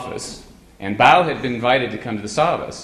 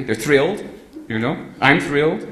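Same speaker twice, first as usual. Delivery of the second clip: high, louder, beaming; gushing delight; 5 semitones higher, 5 dB louder than usual. Retold or imitated. Telling Erich about the program, loud and gushing. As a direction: oversell how thrilled everyone is.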